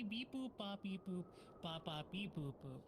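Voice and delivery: sing-song robot beeping; robot beep boops. Pretend. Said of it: "cursed to talk only in beep boops".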